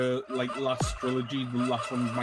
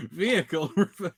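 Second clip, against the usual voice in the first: laughing alarm imitation, higher; truck reversing alarm; 4 semitones higher than usual. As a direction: giggle through a machine warning. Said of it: "They have that little au".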